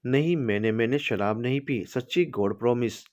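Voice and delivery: put-on a touch of childlike innocence; innocent tipsy girl. Tipsy bride swearing to husband, childlike and innocent. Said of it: "बड़ी मासूमियत से कहा".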